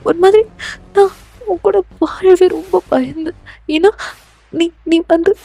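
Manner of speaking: mildly upset, protesting heroine; frightened pleading heroine. Acted. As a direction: plead with an obsessive lover.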